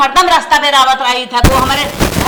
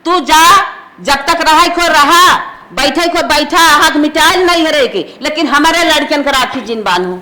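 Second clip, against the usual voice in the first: firm, cross orders; stern, emphatic telling-off; angry scolding. Acted. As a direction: lay down the law to an unwanted daughter. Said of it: "माई काहे हमसे तो इतना गुस्सा करत हो".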